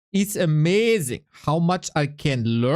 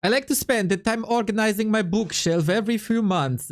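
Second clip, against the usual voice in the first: put-on Italian accent; 2 semitones higher than usual. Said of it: "my Italian accent".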